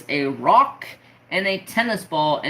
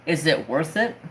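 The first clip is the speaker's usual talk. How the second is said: dad's doubting question, voiced close to usual pitch. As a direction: ask it evenly as the dad, rising at the end. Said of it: "what does my dad say to me".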